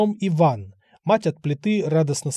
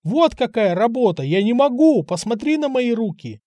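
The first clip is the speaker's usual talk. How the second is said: hysterical shout; 7 semitones higher than usual. Acted. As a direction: whine it out like a spoiled young man showing his hands. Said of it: "истерично кричал".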